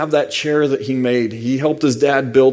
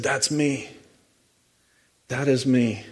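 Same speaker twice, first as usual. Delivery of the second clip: quiet; 7 dB quieter than usual. Acted. Jesus claims the scripture.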